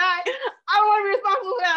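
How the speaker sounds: fast, high, loud whiny cry; panicky kid. Retold or imitated. Mother imitating her daughter, a fast high whine. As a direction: rattle it off like a scared twelve-year-old.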